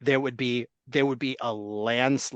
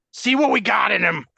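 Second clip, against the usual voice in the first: put-on light Canadian accent, higher and louder; 6 semitones higher, 5 dB louder than usual. Host joking about Bagent in a put-on Canadian accent. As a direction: slip into a goofy Canadian voice. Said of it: "He started doing Canadian voices".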